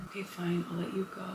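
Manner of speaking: very soft, low, sighing concession; mock reluctant surrender. Beast releasing his prisoner Belle, mock reluctant. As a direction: sigh and give in under your breath. Acts Beast giving in with sigh.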